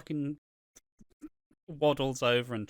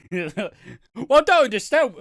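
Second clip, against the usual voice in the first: much higher, louder mock whine; mock fanboy whine; 9 semitones higher, 9 dB louder than usual. Mocking friend as an obsessed fan, much higher louder whine. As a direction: squeal it like a hurt superfan. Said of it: "this is gonna be your fat boy".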